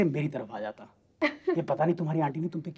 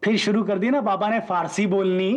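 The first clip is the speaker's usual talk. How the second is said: laughing; 6 semitones higher, 5 dB louder than usual. Pretend. Father jokes at himself.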